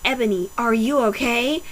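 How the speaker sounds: a hint of a cartoon pony; lightly voiced cartoon pony girl; Twilight Sparkle voice. Reading Bloody Mary's line in a light cartoon pony voice. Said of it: "gave her Twilight Sparkle's voice".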